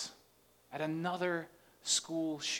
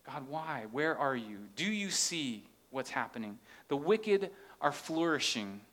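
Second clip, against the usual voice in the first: earnest; 2 semitones lower than usual. Shown as a demonstration. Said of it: "in earnest".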